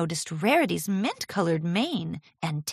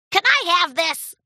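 put-on high, hopeful little-boy ask; pleading young dragon; 11 semitones higher, 7 dB louder than usual. A narrator's reading. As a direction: ask sweetly for a treat. Spike begging gem.

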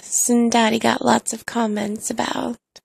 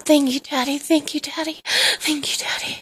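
mild, slightly raised cry of thanks; retold crying out; 3 semitones higher than usual. Narrator replays thanking partner, mildly crying out. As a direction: call out thanks, turning breathy at the end. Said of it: "crying out".

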